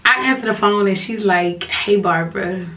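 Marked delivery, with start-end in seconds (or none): 1.6-2.6 a put-on sweet caller voice, barely held before laughing; mock caller voice. Teller jokingly voicing the girlfriend on the phone, mock sweet. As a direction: fake the caller's greeting as a joke.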